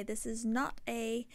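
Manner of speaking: lightly attempted British accent, slowed down; imitating a podcaster with a hammy British accent; bad British accent. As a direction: have a rough go at a British accent. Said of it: "my horrible attempt at a British accent".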